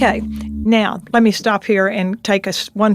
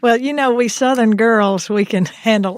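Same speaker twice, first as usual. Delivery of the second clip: mock Southern belle accent. Shown as a demonstration. Professor clowning for the hosts, thick mock Southern accent. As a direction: ham up a proud Southern girl accent. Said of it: "put on my most Southern accent here".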